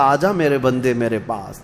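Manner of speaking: softly calling the servant home; a soft, tender invitation. Retold or imitated. God calling the servant in this world, soft and tender. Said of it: "بلا رہا تھا".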